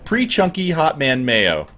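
"Pre-chunky hot man mayo" read very slowly and deliberately; slow announcement. Shown as a demonstration. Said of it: "special message for Fedrin".

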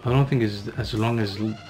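ordinary delivery

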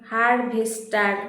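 হারভেস্টার said slowly as an answer to write; slow dictation. Shown as a demonstration. Teacher gives pupils the answer, হারভেস্টার slowly dictated. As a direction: give হারভেস্টার at an unhurried, dictating pace. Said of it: "বানানটা ঠিক করে নাও".

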